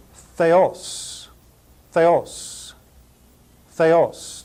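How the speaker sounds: "theos" said thay-OSS, repeated with pauses; pronunciation demo. Shown as a demonstration. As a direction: model "theos" as thay-OSS for learners to copy. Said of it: "pronounce them all again".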